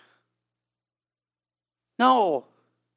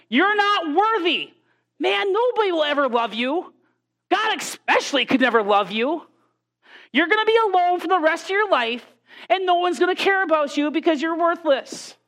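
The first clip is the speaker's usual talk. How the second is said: higher, cutting put-down; devil's taunting voice; 3 semitones higher than usual. Retold or imitated. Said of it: "The enemy tells you".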